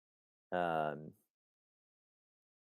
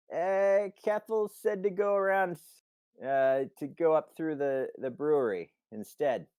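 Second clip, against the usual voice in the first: high, loud voice from above; unseen guard calling down; 10 semitones higher, 7 dB louder than usual. Acted. Steiny refusing Simon from above, calling down. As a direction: holler down in a raised guard's voice.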